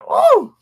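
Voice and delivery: high, loud hammed-up woo; mock catcall whoop. Mocking a coworker ogling a woman, loud whoop.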